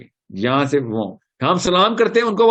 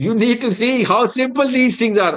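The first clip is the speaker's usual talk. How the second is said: very slow, higher English line; stretched-out preacher's plea; slow emphasis; 7 semitones higher, much slower than usual. Real, not acted. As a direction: drag it out to make them listen. Preacher urges simplicity in English.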